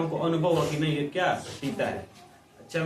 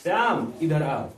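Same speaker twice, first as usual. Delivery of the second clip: calling out by name; 3 dB louder, slower than usual. Retold or imitated. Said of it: "इसलिए बोला".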